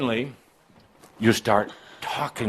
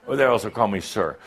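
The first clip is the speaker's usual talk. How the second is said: usual speaking voice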